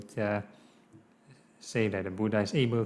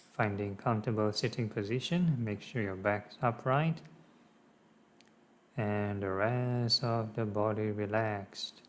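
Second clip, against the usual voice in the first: measured meditation guidance with long pauses; lightly held meditation-teacher delivery; guided meditation. Real, not acted. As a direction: gently guide listeners through it, unhurried. Leads a meditation.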